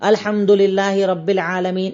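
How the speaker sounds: slow, each word separated and drawn out; slow careful recitation. Shown as a demonstration. Preacher shows the Prophet's way, slow and deliberate. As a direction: lay every word down one by one. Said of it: "ایک ایک لفظ الگ الگ ادا ہوتا تھا".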